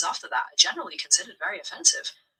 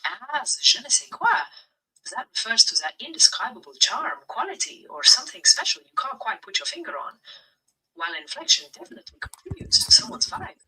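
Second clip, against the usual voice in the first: put-on English spoken with a light French accent; 2 semitones higher than usual. Chatbot answering the streamer's request, in a French accent. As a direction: play a French-born speaker talking English, with a French accent. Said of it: "speak English within a French accent".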